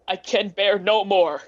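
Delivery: a desperate plea, voice rising; pleading. Acted. Scrooge begging the spirit to take him away, pleading. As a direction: beg for release, near breaking.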